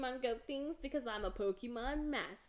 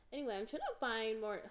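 voice cracking; faster than usual. Real, not acted. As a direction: voice cracks mid-sentence. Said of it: "my voice just cracked".

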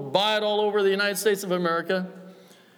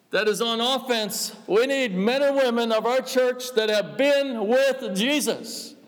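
preaching; 2 semitones higher than usual. Acted. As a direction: drive the verse home with fire. Preacher builds to fervent climax.

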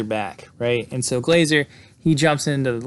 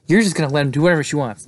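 irate; 3 semitones higher, 4 dB louder, much faster than usual. Retold or imitated. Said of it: "Michelle's pretty irate".

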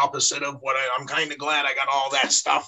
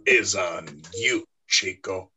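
bad Razor Ramon accent; 6 semitones lower than usual. Joking to the host in the wrestler's bad Cuban accent. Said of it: "for this bad accent".

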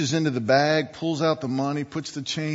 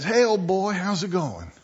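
lightly voiced butcher greeting a dog, higher at the start; friendly butcher; 4 semitones higher than usual. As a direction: greet a dog as a regular customer. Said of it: "the butcher says".

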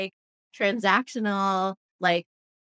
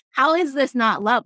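excited exclamation; 6 semitones higher, 5 dB louder than usual. Retold or imitated. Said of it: "I'm like".

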